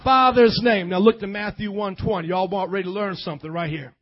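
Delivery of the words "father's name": loud shouted line, punched hard; preacher repeating it louder on request; shouting repeat. Real, not acted. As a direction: drive it home at full voice. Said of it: "one more time now".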